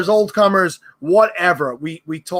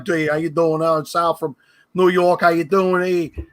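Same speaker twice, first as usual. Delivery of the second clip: put-on New York accent. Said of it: "when I first started podcasting, I was like".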